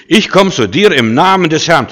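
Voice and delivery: laut und höher, komm kraftvoll betont; kampfeslaut. Shown as a demonstration. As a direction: wie David dem Riesen entgegenrufen. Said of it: "fertig gemacht mit seiner Stimme". (David ruft Goliath laut und kraftvoll entgegen)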